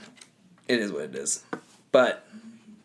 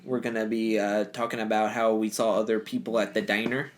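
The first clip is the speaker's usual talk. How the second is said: lightly put-on Upper Midwest accent; Minnesota accent. Podcast host jokes about the next destination, mock Minnesota accent. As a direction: do a jokey North Dakota accent. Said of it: "can we talk in that accent".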